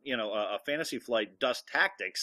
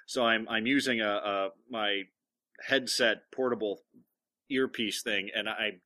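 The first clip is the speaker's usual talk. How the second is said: muffled echoey headset sound; inside a fishbowl. Real, not acted. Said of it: "You sound like you're in a fishbowl".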